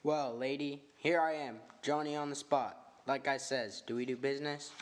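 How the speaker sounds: lightly voiced streetwise chauffeur; a hint of a cocky tough guy selling information; slangy chauffeur, mildly swaggering; tough hired man.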